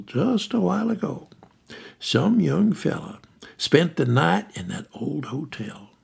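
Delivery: lightly voiced country storyteller, eager; folksy storyteller Council. Council telling the ghost story over the phone in a light country voice. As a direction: spin the tale like an old local yarn.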